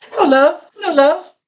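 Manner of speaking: a cheery English hello, love; English accent. Retold or imitated. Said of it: "she had that accent".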